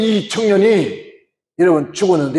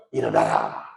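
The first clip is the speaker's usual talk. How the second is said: commanding Jesus; 8 dB quieter than usual. Acted. Jesus commands the dead youth.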